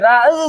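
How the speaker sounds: "ৰা, উ" drawn apart into two pieces; wrongly split word. Shown as a demonstration. Teacher mocks a wrong reading to class, "ৰা, উ" pulled apart. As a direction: stretch the first sound, then add the last separately. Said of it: "এনেকে পঢ়িব নেকি".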